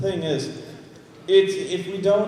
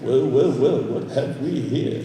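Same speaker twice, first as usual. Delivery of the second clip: mock villain; 6 semitones lower, slower than usual. Voicing villain line.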